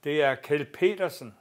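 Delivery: calls out his name like a cheery caller; retold call out. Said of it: "der råber". (råber navnet i telefonen)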